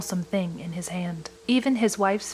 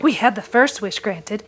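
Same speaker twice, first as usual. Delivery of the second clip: put-on feverish old woman; 5 dB louder than usual. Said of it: "said the old woman feverishly".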